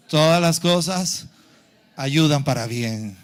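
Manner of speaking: loud, slow, low-pitched scripture declaiming; weighty, measured pulpit recitation. Real, not acted. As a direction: call the verse out firmly to the congregation. Leads congregation through the verse.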